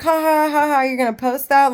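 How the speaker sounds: imitating a mocking laugh before the question. Mocking friends laughing at photo.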